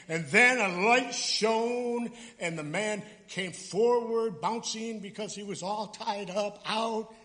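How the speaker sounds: mock grand retelling of the raising; grandiose narration. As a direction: ham it up like a movie trailer. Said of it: "shouldn't it be more grandiose here".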